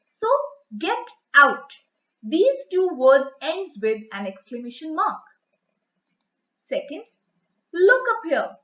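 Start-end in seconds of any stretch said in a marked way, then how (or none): 0.8-1.7 louder, firm example shout; shouted command. Shown as a demonstration. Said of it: "something shouted or spoken loudly". 7.7-8.6 raised, louder demonstration yell; mock yell. Shown as a demonstration. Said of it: "she yelled".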